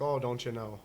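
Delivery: lightly imitated Wisconsin accent; a mild mock Upper Midwest accent. Host mimicking northern people near Canada, light Wisconsin accent. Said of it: "sound like the people from Wisconsin".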